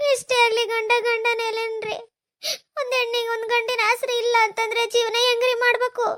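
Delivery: tearful plea; crying. Acted. Daughter-in-law asking how a woman lives without a husband, crying. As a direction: plead it through tears.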